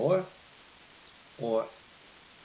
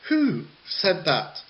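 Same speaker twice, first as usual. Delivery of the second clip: teacher role; 3 semitones higher, 3 dB louder than usual. Pretend. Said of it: "play both roles of the teacher".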